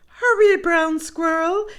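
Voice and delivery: high, loud urgent call; calling grandmother. Acted. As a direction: call him home in a panic. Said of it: "she called".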